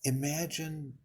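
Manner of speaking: calm, unhurried guiding voice with long pauses; guided meditation. Real, not acted. Leader settling listeners into breathing and imagery, guided meditation voice. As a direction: lead them gently through each breath, leaving space between phrases.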